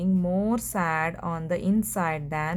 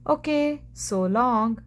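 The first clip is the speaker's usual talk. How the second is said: bright, higher, breezy farewell; cheery so long; cheerful goodbye; 4 semitones higher than usual. Acted. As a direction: wave someone off with a lift in the voice. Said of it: "said Rosie cheerfully".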